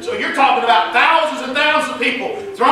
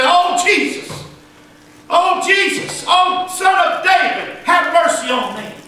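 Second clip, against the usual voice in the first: high, drawn-out cry for mercy; yelled plea; 7 semitones higher, slower than usual. Acted. Blind man begging Jesus for mercy, yelling out. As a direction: cry out high over a crowd, pleading. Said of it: "he was going to yell and cry out to Jesus".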